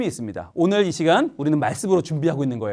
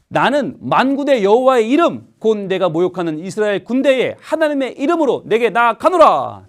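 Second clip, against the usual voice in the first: David's battle cry; 3 semitones higher than usual. Pretend. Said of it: "이렇게 외칩니다".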